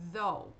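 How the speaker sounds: "Though" with a voiced th, "dh-oh"; tongue between teeth, buzz into "Though". Shown as a demonstration. Teacher models the voiced th for students. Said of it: "T H vozeado é difícil".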